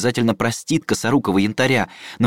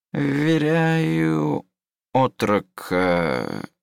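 dictating slowly; 5 semitones higher, much slower than usual. Acted. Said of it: "начал диктовать себе лазурит".

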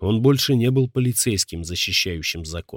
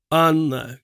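high, louder cry of her name; desperate cry; 8 semitones higher, 3 dB louder than usual. Acted. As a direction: call out in panic. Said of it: "крикнул Марк".

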